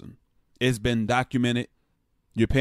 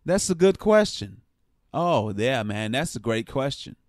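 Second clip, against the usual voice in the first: mock interviewee. Player stalling on reporters' questions, mockingly rehearsed approval. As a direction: imitate a rehearsed press-conference answer. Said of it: "every other question he's like".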